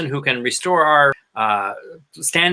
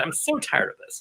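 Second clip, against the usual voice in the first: whispered weariness; 8 semitones higher, 8 dB quieter than usual. Real, not acted. Weary sigh of political fatigue.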